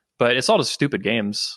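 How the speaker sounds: normal talking voice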